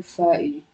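"thirty" starting with an f sound; th turned to f. Shown as a demonstration. Showing a friend the accent, "thirty" with an f. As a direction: say "thirty" as firty, f replacing th. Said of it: "My T H is sometimes turned to F".

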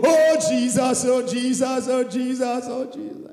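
plea sinking into a whisper; fading cry. Acted. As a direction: let each Jesus die away. Fading repeated cry to Jesus.

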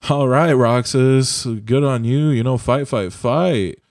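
drawn-out, cocky character impression; Axel. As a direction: lightly imitate a game villain squaring up for a fight. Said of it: "that's exactly how he talks".

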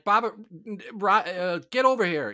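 high calling out to a pet; sing-song call to the cat across the room. Retold or imitated. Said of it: "We'd be like".

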